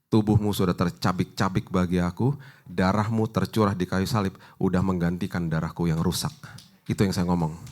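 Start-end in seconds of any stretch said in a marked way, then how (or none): 0.1-6.3 prayer. Retold or imitated. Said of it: "kita bilang gini".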